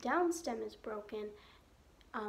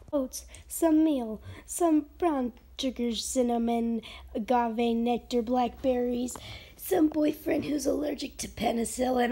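loud listing; 6 dB louder than usual. Real, not acted. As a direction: call out the list loudly. Loud recipe list.

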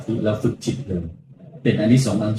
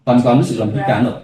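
guided meditation. Acted. Monk leads guided meditation.

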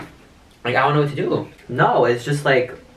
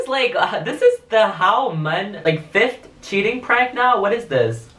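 exasperated; 8 semitones higher than usual. Real, not acted. Exasperated at prank.

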